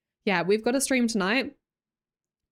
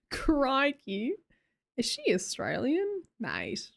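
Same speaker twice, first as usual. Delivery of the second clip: lightly exaggerated Australian accent; imitated Aussie greeting accent; 4 dB quieter than usual. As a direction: play up a broad Australian accent. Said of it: "as soon as you hear an accent".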